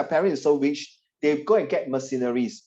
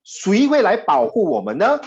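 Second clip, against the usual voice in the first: higher, louder strong question; 强有力地; 6 semitones higher, 4 dB louder than usual. Shown as a demonstration. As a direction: deliver it with force. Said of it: "Very strong".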